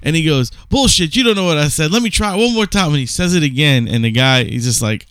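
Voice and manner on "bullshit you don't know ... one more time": higher-pitched retold protest; mock indignant. Brando insisting the actor try again, mock indignant. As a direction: imitate an insistent star brushing off doubt.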